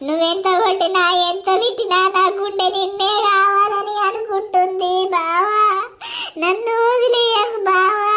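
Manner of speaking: wailing, tearful begging; wife weeping and begging him to leave the other woman; sobbing plea. Acted. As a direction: cry out your plea, half-sung in grief. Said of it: "ఏడవకే బిడ్డ".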